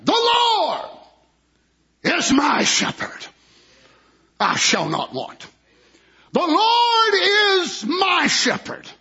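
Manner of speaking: rising, ringing recitation of the psalm; fervent pulpit reading of the Lord is my shepherd; preaching scripture. Acted. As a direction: proclaim each phrase like a revelation.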